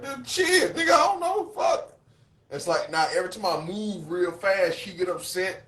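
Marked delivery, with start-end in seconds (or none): 0.0-1.9 much higher, rising exasperated outburst; flustered, voice climbing; retold panic. Man telling his girlfriend he doesn't know, flustered high. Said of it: "I'm like".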